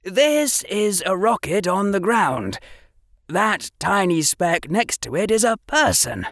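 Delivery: a hint of a keen boy showing off; Harry explaining muggle pictures to Draco; young Harry. Harry voiced in reading.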